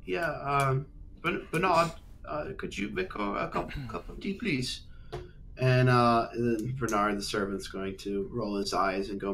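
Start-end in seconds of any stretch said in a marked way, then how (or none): 1.2-4.8 lord voice. Acted. Lord calls to the servant.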